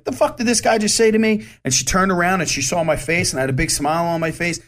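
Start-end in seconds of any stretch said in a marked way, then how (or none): 0.0-1.5 confused. Retold or imitated. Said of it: "she looked at her friend like".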